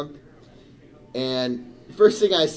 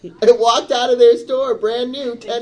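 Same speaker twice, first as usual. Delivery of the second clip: angry retold protest; 8 semitones higher, 7 dB louder than usual. Angry retold quote to clerk.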